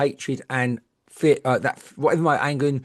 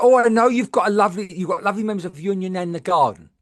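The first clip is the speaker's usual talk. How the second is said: gushing psychic voice, louder at first, then rushed; mock medium; 3 semitones higher, 3 dB louder, faster than usual. Mocking a psychic's generic message, lightly put-on. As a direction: mimic a reader going through the motions. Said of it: "She said".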